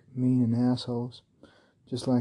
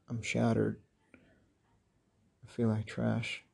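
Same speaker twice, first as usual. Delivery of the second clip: whispering; much slower than usual. Real, not acted. Low point of despairing confession.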